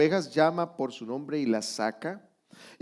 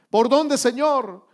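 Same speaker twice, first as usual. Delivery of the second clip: pleading question; 8 semitones higher, 6 dB louder, slower than usual. Pretend. Believer asking the Lord.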